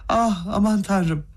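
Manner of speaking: slow, high gasp of dismay; slow, high cry of alarm; shocked cry. Acted. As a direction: clap and wail oh my god. Kolya claps, shocked.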